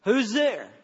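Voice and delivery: lightly voiced child; little kid's voice. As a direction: ask like a small child behind a door. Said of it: "I heard this voice".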